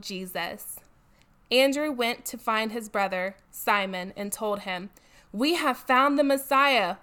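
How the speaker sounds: animated, projected Bible reading; scripture reading aloud. A narrator's reading. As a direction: read the story out with emphasis. Reads Bible passage aloud.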